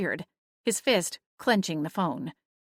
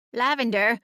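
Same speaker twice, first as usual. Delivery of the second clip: squawked; 5 semitones higher than usual. Acted. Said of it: "Celine squawked".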